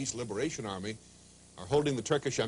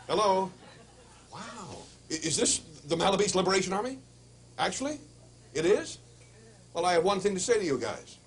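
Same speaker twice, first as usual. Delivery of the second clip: put-on Yiddish accent; 7 semitones higher, 5 dB louder than usual. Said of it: "yiddish accent".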